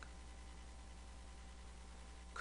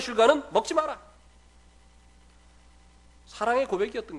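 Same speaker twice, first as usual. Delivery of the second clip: louder, driving preacher's delivery; preaching; 6 semitones higher, 11 dB louder than usual. Acted. Pastor urging the congregation about God's love, full preaching voice. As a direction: build the sermon to its peak.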